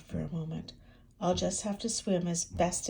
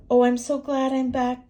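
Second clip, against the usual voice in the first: relieved; 5 semitones higher, 9 dB louder than usual. Acted. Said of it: "clucked Hilda".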